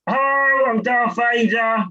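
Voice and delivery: hammed-up slow villain hello; Darth Vader impression. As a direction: do a deadpan Vader. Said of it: "I do impressions".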